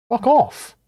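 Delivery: high, sharp fuck off; snapped retort. Real, not acted. Snapping back after mock quote.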